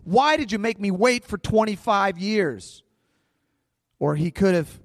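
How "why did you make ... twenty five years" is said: higher, louder imagined protest at God; a touch of shaking your fist at heaven; a hint of an angry Abram; mock angry complaint. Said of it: "gotten angry and shaken his fist at God and said".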